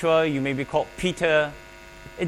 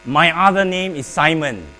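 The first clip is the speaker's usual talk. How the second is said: loud declaration; 7 dB louder than usual. Real, not acted. Congregation repeats aloud.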